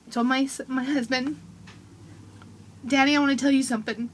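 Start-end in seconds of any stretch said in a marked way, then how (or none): 2.9-4.1 put-on quick, eager little-boy voice; eager child's request. Son telling his dad he has something to say, quick and eager. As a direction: rush it out like a kid with big news. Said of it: "That's how he said it".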